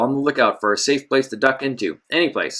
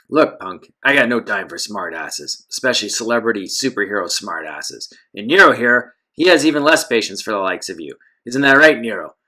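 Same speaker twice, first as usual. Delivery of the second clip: low, gravelly thug voice. Acted. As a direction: menace it out like a heavy. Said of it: "a deep, gravelly voice".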